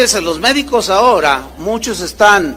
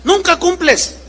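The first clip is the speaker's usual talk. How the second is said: mock nagging wife, raised pitch; wife's whine; 9 semitones higher than usual. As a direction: mimic the wife pouting "Nunca cumples". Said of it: "se pone la señora así".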